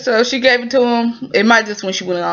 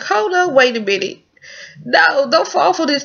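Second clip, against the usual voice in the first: higher, urgent don't-do-it plea; mock warning; 6 semitones higher than usual. Viewer warning the shop lady not to fall for him, high. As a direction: yell at the screen, lightly. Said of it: "And I'm like".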